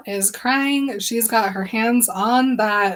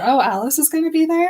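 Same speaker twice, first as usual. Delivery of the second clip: mock surprise; 7 semitones higher, 3 dB louder, faster than usual. Bella quoted, surprised.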